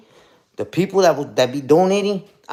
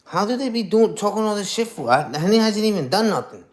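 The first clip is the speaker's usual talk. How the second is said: mock disbelief; 6 semitones higher than usual. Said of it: "and I'm like".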